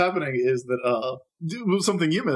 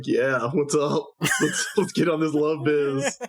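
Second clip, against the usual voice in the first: eager Usagi; slower than usual. Retold or imitated. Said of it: "Usagi is like".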